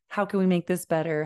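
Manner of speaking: hurried problem solving. Shown as a demonstration. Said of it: "very quickly and then on to".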